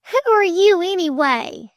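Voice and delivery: high, loud challenge; high-pitched affronted question; indignant demand. A narrator's reading. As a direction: demand it of an intruder. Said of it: "she demanded".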